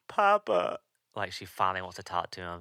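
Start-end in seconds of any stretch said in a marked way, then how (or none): 0.1-0.8 imitating a little girl's high, loud cry; child's yell. Daughter finally calls after departing father, imitated high yell. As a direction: call out as a daughter yelling for Dad. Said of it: "like, yells".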